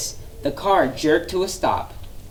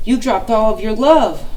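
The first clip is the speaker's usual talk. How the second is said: louder call after a flyer; 5 semitones higher, 5 dB louder than usual. A narrator's reading. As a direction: call out after him as he flies off. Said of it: "Olive called out".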